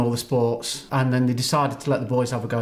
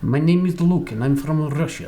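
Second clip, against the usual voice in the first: a playful mock Russian accent. Shown as a demonstration. Laughing mock Russian accent on request from host. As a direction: put on a jokey Russian accent, laughing through it. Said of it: "Okay, do your Russian".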